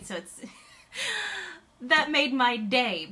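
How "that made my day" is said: laughing. Real, not acted. Laughing at the Americano story.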